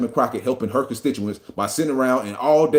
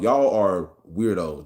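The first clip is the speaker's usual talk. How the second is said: y'all are weirdos stretched out slow; slow deliberate jab; slow, drawn-out insult; 4 semitones lower, much slower than usual. Real, not acted. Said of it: "I'ma say that word over and over again".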